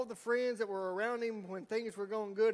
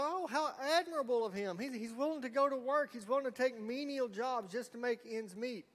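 higher, gushing mock praise for the son; mock admiration; 5 semitones higher than usual. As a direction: gush over him with fake admiration. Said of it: "And we go".

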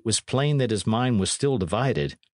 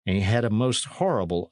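ordinary delivery

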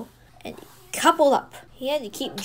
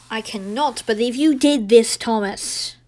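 a scolding shout, louder at the start; 5 dB louder than usual. Acted. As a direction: boss telling Thomas off, voice raised. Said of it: "he shouted".

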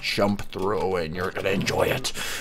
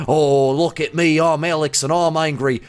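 mock angry Alex; 4 semitones higher than usual. Mocking Alex's old avatar, lightly voiced anger. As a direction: tease him as a grumpy hothead. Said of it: "does he get angry".

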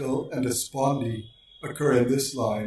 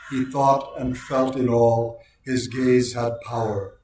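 measured poem reading. Shown as a demonstration. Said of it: "typical iambic rhythm is heard".

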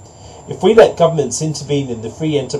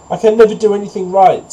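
high-pitched pig's protest; pig refusing; 6 semitones higher, 4 dB louder than usual. A narrator's reading. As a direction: complain in a raised storybook voice.

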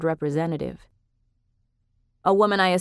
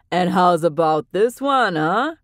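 lightly voiced Frankie; 5 dB louder, slower than usual. A narrator's reading. Frankie admiring Ray.

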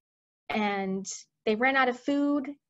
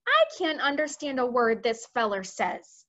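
mildly irritated, slightly raised complaint; snapped; 3 semitones higher than usual. Acted. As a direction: complain with a touch of impatience. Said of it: "the head of the army snapped".

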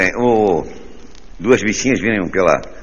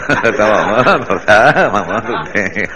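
laughing tease; much slower than usual. Real, not acted. Teasing audience member, slow laughing.

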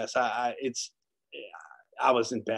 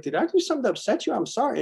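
much higher, fast, timid little voice; mock meek apology; 12 semitones higher, 4 dB louder, faster than usual. Patient apologizing to the nurse who scolded him, mock timid. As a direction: shrink back and apologize like a scolded kid.

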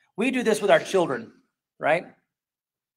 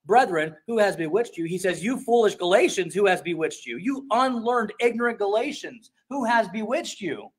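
harsh rebuke; 2 semitones higher than usual. Retold or imitated. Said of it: "continues with this tone".

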